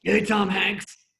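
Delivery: nervous, loud, high greeting; Chris. Retold or imitated. Nervous writer greeting the star host, loud and awkward. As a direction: drag out an over-loud, awkward hello. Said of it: "But he gets so nervous".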